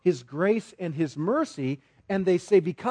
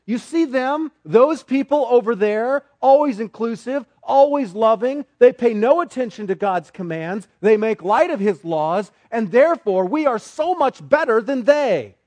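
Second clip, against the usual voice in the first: smug self-righteous; 5 semitones higher, 6 dB louder than usual. Acted. Voicing smug conservatives.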